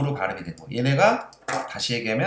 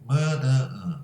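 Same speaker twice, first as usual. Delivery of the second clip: pinching nose; much slower than usual. Shown as a demonstration. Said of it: "코에서 나는 소리지".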